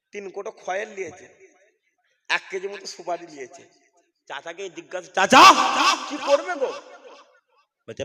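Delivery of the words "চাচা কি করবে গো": mildly higher, loud call with a laugh; curious question. Retold or imitated. A hint of a young man asking his uncle. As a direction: call out to the old uncle teasingly.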